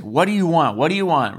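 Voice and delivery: mildly snappish retold demand; annoyed. Staff member to girl seeking attention, annoyed. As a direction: imitate an irritated, mean staffer. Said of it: "Staff is really annoyed with her".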